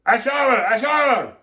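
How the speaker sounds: put-on high, loud excited kids; children screaming. A narrator's reading. Four children jump into water, screaming. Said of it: "screamed Miss Ralph's four children".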